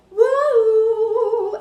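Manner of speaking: sudden high, loud whoop; wild whoop. Shown as a demonstration. Showing how her chopped lives make her look crazy, a wild whoop. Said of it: "the next minute I'm like".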